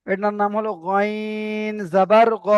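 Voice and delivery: slow, drawn-out গইন জবর গ with the short গ ending; correct letter name. Shown as a demonstration. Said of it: "এটা গাইন পড়েছেন?".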